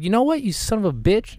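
very high-pitched pretend comeback; hammed-up indignant squawk; mock outrage. Friend imagines telling off the man, mock outraged.

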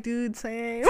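laughing through a mock shout; laughing mock agreement. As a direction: crack up while agreeing. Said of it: "And I'd be like".

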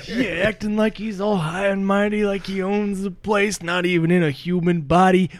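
cocky, rising to a laughing shout; taunting trash talk. Pretend. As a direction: hype up the crew, mock the goat man. Taunting the goat man, hyped up.

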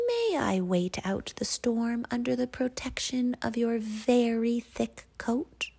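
a small hare asking a big favour, lightly voiced; polite hare. Hare asking to shelter under the ox's coat, hushed and polite. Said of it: "he asked politely".

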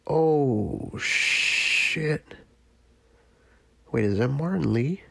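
sudden startled oh shit; surprised. Real, not acted. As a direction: caught off guard, breathy curse. Sudden surprise at a game reveal.

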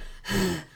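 demonstrated huffing sigh; heavy breathing. Shown as a demonstration. Showing how some people puff climbing stairs, heavy breathing. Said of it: "some people are like".

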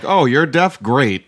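high-pitched mock enthusiasm; sarcastic. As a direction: feign delight with obvious sarcasm. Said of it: "Like, sarcastic".

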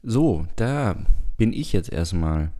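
rough, raspy morning voice. Real, not acted. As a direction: speak with a raspy, rough throat. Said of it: "meine Reibeisenstimme".

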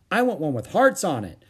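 put-on high, loud little-girl wail; childish wail. A narrator's reading. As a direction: wail it in mock protest. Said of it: "wailed a girl".

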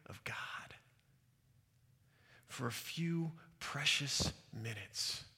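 soft and halting, long pauses between phrases; hushed, moved. Real, not acted. Son recalling precious minutes with his dad, hushed and moved. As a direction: let each phrase land quietly, with reverence.

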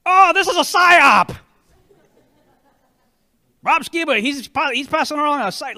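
high, loud mocking skeptic. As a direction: sneer it like a panicky critic. Mocking a critic's objection.

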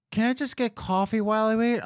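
high, put-on customer voice; hammed-up demanding diner; mock lady customer. Imitating the lady asking coffee.

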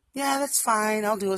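imitating agreeable girlfriend. Girlfriend promising a morning ride, imitated agreeableness. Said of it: "she's totally fine".

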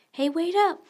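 high, loud shout after a friend; calling out. A narrator's reading. Peter calls after sprinting Thomas, loud shouted call. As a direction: yell to get someone to stop. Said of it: "Peter called to Thomas".

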